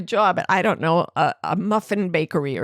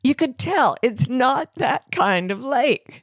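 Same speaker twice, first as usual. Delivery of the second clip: slow, drawn-out breezy insistence; insist, unbothered, stretching it out; mock realtor; 5 semitones higher, slower than usual. Realtor brushing off lake flooding, slow and drawn-out. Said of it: "She said".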